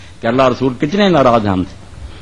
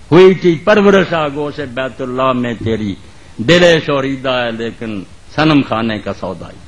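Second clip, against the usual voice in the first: poetry recitation; 2 semitones lower than usual. Acted. Preacher reciting Urdu verse to the congregation, measured declamation. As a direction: recite it line by line, letting vowels stretch.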